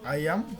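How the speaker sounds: আইয়াম as "eye-am", tune rising at the end; silent final b. Shown as a demonstration. Teacher repeats iamb for students, showing the silent b. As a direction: say আইয়াম with no b after the m. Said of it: "শেষে বটা উচ্চারণ হবে না".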